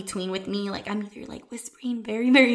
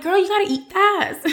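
loud, higher teasing call; playful urging; 10 semitones higher, 6 dB louder than usual. Retold or imitated. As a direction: egg her on, half joking. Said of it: "I'm like".

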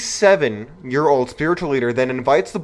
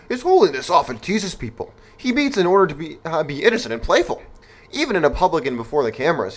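put-on CNN voice. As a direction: read the CNN statement in a mock official voice. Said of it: "let me get my voice correct".

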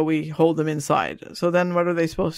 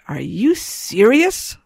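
put-on incredulous teen; 5 semitones higher, much slower than usual. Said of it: "she's like".

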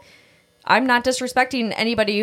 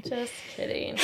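whispered aside; 4 semitones higher, 15 dB quieter than usual. Real, not acted. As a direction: breathe the words without voice. Repeats the joke's retraction.

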